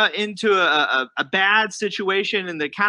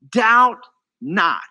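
firm command, louder on "Doubt"; 4 dB louder than usual. Retold or imitated. Jesus commanding the disciples not to doubt, very firm. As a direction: say it firmly, word by word. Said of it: "he's very firm on this".

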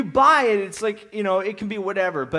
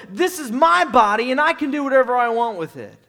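defiant claim; 5 dB louder than usual. Retold or imitated. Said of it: "we go".

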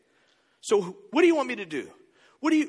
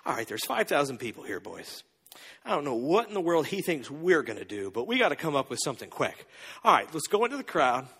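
huddle talk; 6 semitones lower than usual. Acted. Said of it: "they're like".

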